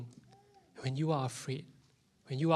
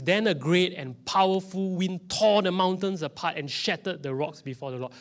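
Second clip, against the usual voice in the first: loud, raised scripture proclamation; dramatic scripture reading; 5 semitones higher, 4 dB louder than usual. Acted. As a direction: proclaim the verse with force.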